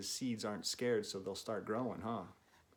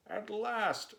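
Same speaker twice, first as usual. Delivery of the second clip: much higher, louder cry of joy; joyful shout; 10 semitones higher, 4 dB louder than usual. Acted. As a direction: exclaim it in triumph. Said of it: "shouted Toad".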